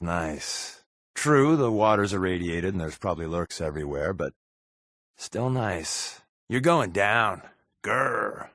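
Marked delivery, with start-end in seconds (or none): 6.5-8.5 mock menace. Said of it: "That's menacing, right?".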